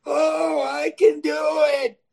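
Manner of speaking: high, shouted mock excitement; an eager inner gambler voice shouting; voice of temptation. Gambler voicing the casino urge in his head, high and shouting. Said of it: "What does my mind say?".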